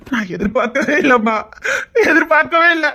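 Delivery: half laugh, half cry of disbelief; laughing through tears. Acted. Son telling mother of his promotion, laughing through tears.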